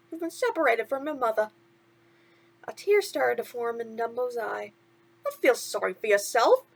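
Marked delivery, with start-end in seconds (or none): 0.1-1.5 chirpy sidekick asking what's wrong; a hint of cartoon mouse; lightly voiced mouse. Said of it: "Timothy said". 5.2-6.7 mild order. Acted. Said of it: "Timothy ordered".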